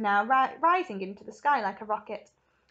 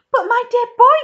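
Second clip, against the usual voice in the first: loud, high, delighted outburst; explosive excitement; 14 semitones higher, 19 dB louder than usual. A narrator's reading. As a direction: burst out with excitement. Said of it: "suddenly exploded with excitement".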